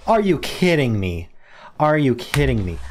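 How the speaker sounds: can't believe he missed it, voice up; exasperated disbelief. Real, not acted. Missed a great word chance.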